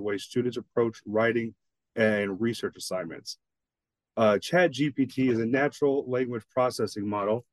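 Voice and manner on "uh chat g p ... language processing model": reading while holding a wriggling cat; strained, restraining a squirming cat; holding down a pet. Real, not acted. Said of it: "I'm wrestling with my cat".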